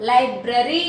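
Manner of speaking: లైబ్రరీ with a long rising ee; teacher's emphatic లైబ్రరీ, ending in ee; stressed E sound. Shown as a demonstration. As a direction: hold the final ee of లైబ్రరీ. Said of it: "ఈ sound".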